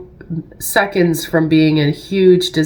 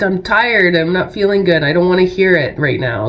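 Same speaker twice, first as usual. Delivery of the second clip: irritated snap; 3 semitones higher than usual. Retold or imitated. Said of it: "I kinda snapped on him".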